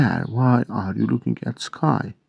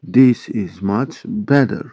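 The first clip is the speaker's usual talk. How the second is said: "This is much better" at a slow, even pace; slow model repeat; slower than usual. Shown as a demonstration. English teacher repeating a sentence for Turkish learners, slow model repeat. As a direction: give each word its own space.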